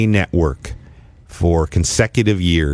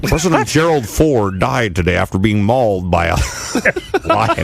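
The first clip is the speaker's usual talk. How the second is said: mock anchor. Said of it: "All right, I'll do it".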